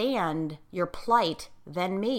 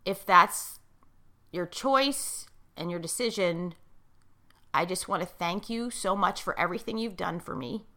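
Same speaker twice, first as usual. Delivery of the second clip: emotional; 4 dB quieter than usual. Real, not acted. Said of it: "and I get emotional".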